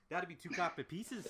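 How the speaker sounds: light Scottish-Irish bartender voice; Scottish-Irish accent. Acted. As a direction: ask for payment with a Scottish-Irish lilt. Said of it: "Scottish-Irish accent".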